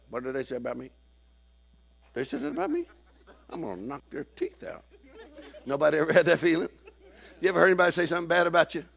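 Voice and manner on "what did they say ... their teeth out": mock indignation. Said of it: "They're like".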